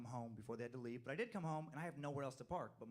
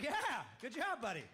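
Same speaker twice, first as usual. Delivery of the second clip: cheering; 11 semitones higher, 6 dB louder, slower than usual. Retold or imitated. Praising son's swear.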